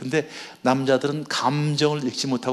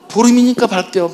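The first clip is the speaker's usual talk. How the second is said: loud, higher blunt retort; blunt husband; 5 semitones higher, 7 dB louder than usual. Retold or imitated. Husband answering his wife, blunt and loud. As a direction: snap back the plain fact.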